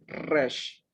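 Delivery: "resh" said slowly and clearly; slow read word. Shown as a demonstration. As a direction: draw out "resh" as the final reading. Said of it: "aquí dice".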